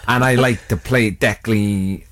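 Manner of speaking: lightly mocked DJ introduction; Declan. Player introducing himself as his DJ friend, light impression. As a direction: draw out a mock DJ patter. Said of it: "I'm Declan Wilson and I am a D J".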